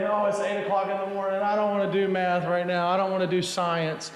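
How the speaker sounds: lightly voiced grumbling student; mock a student reluctant to start class. Pastor imitating a student who won't do math at eight, lightly mock-reluctant. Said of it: "when a student, of course not y'all, uh, will come in".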